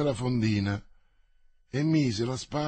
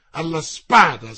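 loud ringing call to swords; challenge call; 9 dB louder than usual. Acted. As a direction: bark the challenge out. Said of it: "voce vibrante e beffarda".

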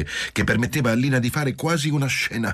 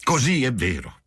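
pained; 6 semitones higher than usual. A narrator's reading. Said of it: "esclamò la donna addolorata".

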